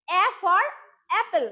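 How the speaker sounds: apple starts with the a of bat; short a sound. Shown as a demonstration. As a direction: say apple with a flat short a, not আপেল. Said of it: "আপেল না কিন্তু অ্যাপেল".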